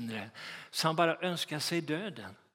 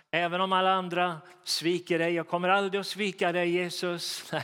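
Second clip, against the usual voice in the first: boastful vow; 2 semitones higher, 3 dB louder than usual. Retold or imitated. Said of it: "han hade sagt".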